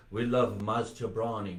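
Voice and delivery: lightly imitated Persian accent. Comedian quoting doctor's assistant who loves Maz, lightly imitated Persian accent. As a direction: quote her with a touch of Persian accent. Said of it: "with that accent".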